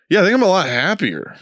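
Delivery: high, pleased rural drawl imitation; imitating a rural guy's happy drawl. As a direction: say it like a content country guy. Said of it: "he kinda talked like this".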